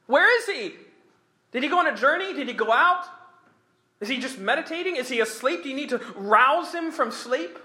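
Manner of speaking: high, laughing mock questions; taunting. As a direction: tease them with fake concern. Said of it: "he's taunting these prophets".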